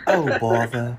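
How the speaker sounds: lightly voiced slow sleepy bear; a hint of Pooh's sigh; Winnie the Pooh voice. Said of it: "can you talk like Winnie the Pooh".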